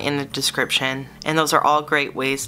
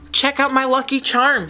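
boasting; 11 semitones higher, 4 dB louder than usual. Acted. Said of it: "he boasted".

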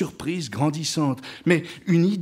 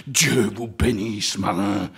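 low, slow, understated sobbing blessing; cry mixed with sobs; 7 semitones lower, slower than usual. A narrator's reading. Ahab blessing his crew, mildly sobbing. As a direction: bless them slowly, choked with feeling. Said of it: "une voix où le cri se mêlait aux sanglots".

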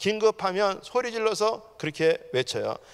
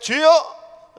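higher, louder one-word plea; crying out to the Lord; 8 semitones higher, 10 dB louder, much slower than usual. Retold or imitated. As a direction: call out loudly, like Peter pleading for rescue. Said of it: "베드로가 소리 지르는 거예요". (크게 부르짖는 목소리)

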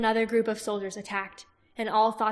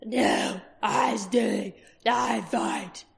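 lightly voiced thick Urgle accent; a hint of a brutish Urgle accent; 4 dB louder, much slower than usual. A narrator's reading. Urgle refusing Roran in a thick accent. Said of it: "in a thick accent".

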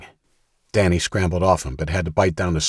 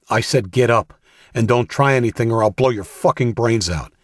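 louder, higher threat, punch GET; threatening shout; 5 semitones higher, 4 dB louder than usual. Acted. Danny threatens Dawson not to try anything, angry raised voice. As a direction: make him believe you'll shoot.

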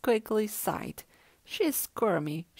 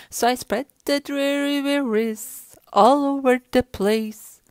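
loud, full-voiced chant; the fish proclaims it loudly; belted refrain; 4 semitones higher, 10 dB louder than usual. A narrator's reading. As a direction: belt the refrain out.

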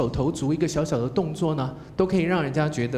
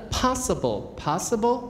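slow "possible" rising, stress kept on POS; stressed question rise; 5 semitones higher than usual. Shown as a demonstration. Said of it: "还是第一重音".

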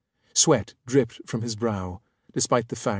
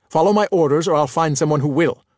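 stern command; 4 semitones higher, 7 dB louder than usual. Acted. Captain threatens subordinate officer.

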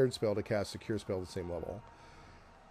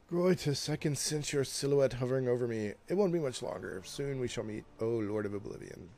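higher-pitched dying plea, easing down at the end; a mild take on a dwarf at death's door, voiced not whispered; lightly voiced dying dwarf; 3 semitones higher than usual. Dwarf on the ground calling to his god, lightly acted dying voice. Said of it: "he's trembling, whispers weak, as though he is at death's door".

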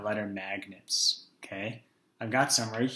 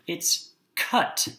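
put-on broad singsong kids theatre; 7 semitones higher, 4 dB louder than usual. Shown as a demonstration. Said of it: "What does that make?".

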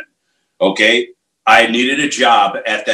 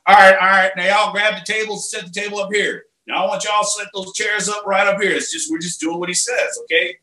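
put-on Missouri accent; 6 semitones higher than usual. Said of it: "he's from Missouri".

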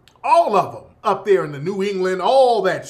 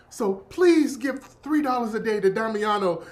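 charity ad plea. Retold or imitated. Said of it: "Sally Struthers doing the voiceover".

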